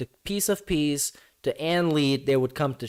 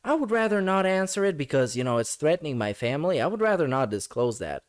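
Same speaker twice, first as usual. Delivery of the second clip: mocking a dodge. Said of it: "'Cause you can just say".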